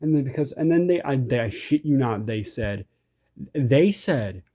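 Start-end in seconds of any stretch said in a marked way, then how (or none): 3.5-4.4 whispered aside; hushed for effect. Real, not acted. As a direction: drop to a whisper.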